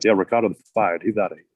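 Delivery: lightly voiced impression of a wrestling promo man; a hint of a wrestler's voice, quickly tossed off; affectionate mimicry of a wrestling legend; Dream. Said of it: "the most perfect Dream impressions".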